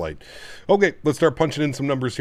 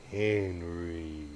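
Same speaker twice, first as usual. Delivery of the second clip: whisper; 5 semitones lower, 8 dB quieter than usual. Real, not acted. Calling the dog softly.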